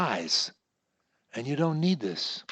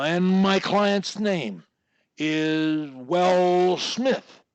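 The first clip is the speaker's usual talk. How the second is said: slow, drawn out; 3 semitones higher, 4 dB louder, much slower than usual. Shown as a demonstration. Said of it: "crutch four says".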